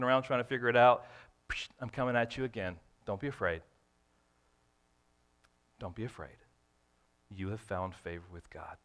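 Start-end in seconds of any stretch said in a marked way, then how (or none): 1.5-8.8 angel reassuring. Retold or imitated. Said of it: "he's repeating it".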